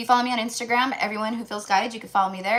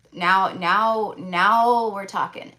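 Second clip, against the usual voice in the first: excited; 6 dB louder, much slower than usual. Real, not acted. Celebrating the Sun card.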